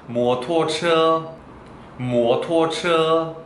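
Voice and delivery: 摩托车 spoken very slowly; Chinese word demo. Shown as a demonstration. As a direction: model 摩托车 slowly for learners. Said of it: "오토바이는". (摩托车를 아주 천천히)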